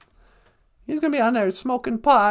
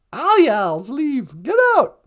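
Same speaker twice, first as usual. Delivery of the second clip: hammy Southern shooing; 4 dB louder than usual. Acted. Shooing people out.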